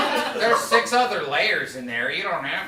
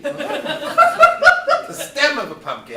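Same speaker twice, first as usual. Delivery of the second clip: loud slow emphasis; 7 semitones higher, 11 dB louder, much slower than usual. Acted. Absurd layer said emphatically.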